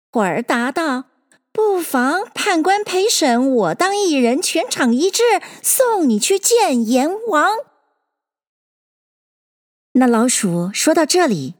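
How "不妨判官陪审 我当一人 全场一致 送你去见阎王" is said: high, swinging rhyme recital; lilting, raised storytelling verse; verse recitation. Acted. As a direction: recite it like a rhyming tale. Dog's reply in the verse.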